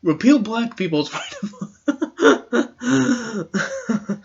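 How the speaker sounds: high laugh breaking through the quote; half-laughing mock slogan. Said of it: "white nationalists being like".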